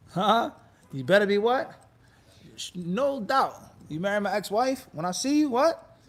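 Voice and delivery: mock threat. Acting out threat to new husband.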